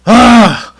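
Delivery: loud, high "ah" of mock panic; retold panicked groan. Owner counting missing poison bars, panicked groan.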